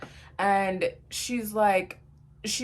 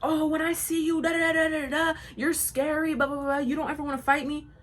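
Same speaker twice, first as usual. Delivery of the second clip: higher, taunting mock voice; mocking her texts; 7 semitones higher than usual. Mocking the girl's Snapchat taunts. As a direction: read her texts back sarcastically. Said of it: "She's talking about".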